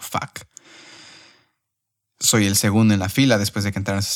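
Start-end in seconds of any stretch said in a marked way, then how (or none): 0.0-0.4 soft, dismayed curse under the breath; muttered curse. Retold or imitated. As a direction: let it slip out quietly, deflated. Susurro de decepción en la fila. (maldición en voz baja, decepcionado)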